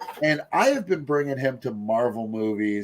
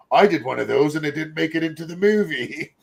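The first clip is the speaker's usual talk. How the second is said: light mock British accent, barely put on; a quick, lightly done British impression of Hemsworth; 4 semitones higher, 4 dB louder than usual. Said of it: "I gave him a British accent there".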